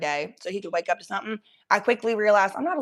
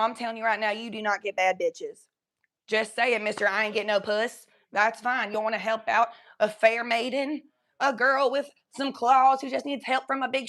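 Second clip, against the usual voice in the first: put-on Southern accent; 2 semitones higher than usual. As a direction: lay on the Southern sass. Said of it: "Mama Buckle Bitch was my Southern accent".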